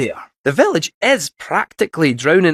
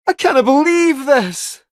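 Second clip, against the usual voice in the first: slow, higher-pitched disbelief; exasperated; 4 semitones higher, slower than usual. Acted. Finding the console access limited, exasperated. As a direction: drag it out in exasperation.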